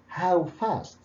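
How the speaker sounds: "How" pitched high, falling through "fast"; stress on How. Shown as a demonstration. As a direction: lean on "How" as the focus word. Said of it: "فالفوكس هو على how".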